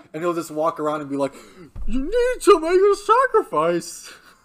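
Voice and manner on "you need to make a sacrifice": excited, booming, slow, loud, drawn-out, swooping preacher-like voice. Imitating how a lecturer gets excited while teaching: imitating Jordan Peterson. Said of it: "He sounds exactly like that".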